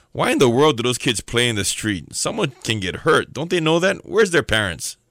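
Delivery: lightly exasperated grumbling grown-up; mock worried adult. Grown man fretting over kids playing in the street, mock exasperation. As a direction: fuss about careless kids, playfully overdone.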